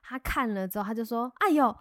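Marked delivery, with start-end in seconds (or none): 1.4-1.8 put-on old man surprised. The old pest man spots the hornet nest, surprised old man voice.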